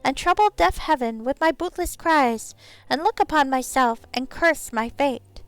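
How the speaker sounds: high pixie reading verse aloud. Pretend. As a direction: recite poetry as a little pixie. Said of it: "out of practice with this pixie voice".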